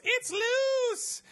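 high, frantic warning cry; panicked shout. Acted. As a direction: sound the alarm in a panic. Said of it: "a voice goes".

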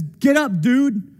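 a hint of a chill bro; casual angel. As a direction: brush him off like a surfer bro. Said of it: "and says".

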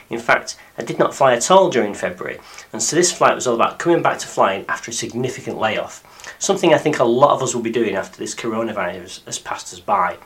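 deep croaky voice from illness; hoarse, croaky after being ill. Real, not acted. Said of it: "apologise for my deep, croaky voice".

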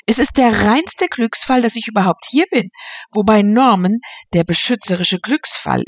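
lightly voiced, gushing society lady; a hint of an affected hostess. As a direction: chatter on like a bored grande dame. Mrs Knight's chatter read in voice.

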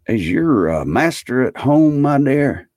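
high, hesitant, polite inquiry; kindly Scrooge. A narrator's reading.

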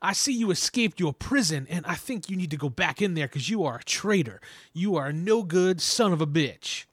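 put-on high Count Dracula accent; menacing vampire count accent; Transylvanian accent. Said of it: "my Lawrence voice like Corey, of the Count voice".

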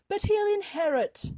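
high, loud insistent father; loud protest. A narrator's reading. Father defending his son's inheritance, loudly protesting. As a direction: burst out in objection.

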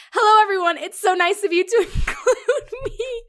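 stiff, over-polite mock greeting; awkward line delivery. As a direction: imitate a clunky, forced welcome. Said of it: "it sounds awkward".

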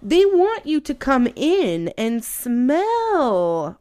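slow build with "smell" stretched out; drawn-out emphasis. Real, not acted. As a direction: lean long and high on "smell". Drawing out the gross detail.

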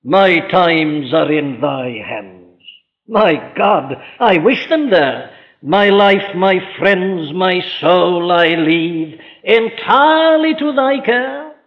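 slow, hushed words of surrender; solemn slow prayer of trust. Pretend. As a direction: pray it like a believer handing over his life. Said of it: "The Christian speaks like this".

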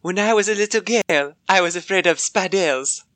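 imitating a girl's French-ish accent; copied accent attempt. Shown as a demonstration. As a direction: have a go at the mock French accent. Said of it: "I, I wanna try".

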